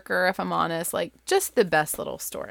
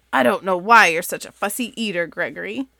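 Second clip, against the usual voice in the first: louder, mildly exasperated parent; a gentle dinner-table scolding; scolding goat parent; 5 dB louder than usual. Acted. Parent scolds fussy child.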